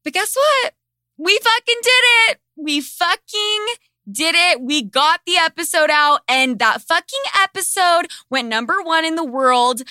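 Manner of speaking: high, loud, elated celebration; exhilarated, high-pitched victory cry; triumphant. Real, not acted. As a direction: shout the victory out, punching each phrase. Triumphant climax of her story.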